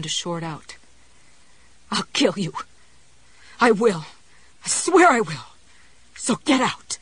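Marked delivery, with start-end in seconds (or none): 1.9-2.5 threat shouted with a worn-out voice; hoarse shout. Acted. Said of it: "her voice rose to a shout again". 3.6-7.0 louder, higher shout breaking into whispers; hoarse shout. Acted. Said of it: "her voice rose to a shout again".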